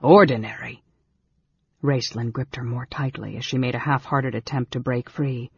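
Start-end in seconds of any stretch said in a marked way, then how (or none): 0.0-0.8 incredulous. A narrator's reading. Mage echoes girl in disbelief.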